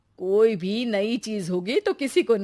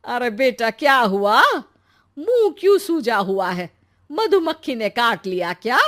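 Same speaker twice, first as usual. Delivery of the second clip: worried teasing mother; 3 semitones higher, 5 dB louder than usual. Acted. Mother sees her son's sulky face, louder with teasing concern. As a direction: ask with mock worry, half teasing.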